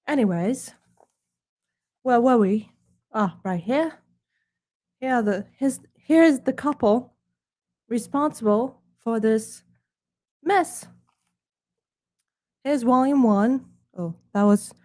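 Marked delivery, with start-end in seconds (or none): 0.1-10.9 lightly put-on snooty British accent. Presenting his book to viewers in a hammed-up snooty British accent. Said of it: "'cause I am speaking with British accent". 12.6-13.7 "volume" said the plain American way; a plain American "Here's volume one."; American accent. Acted. Slipping out of the British accent into plain American. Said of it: "said so Americanly".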